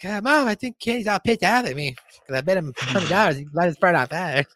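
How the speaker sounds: lightly voiced tattling child; whining Cartman. Cartman telling his mom about Kenny, mock whine.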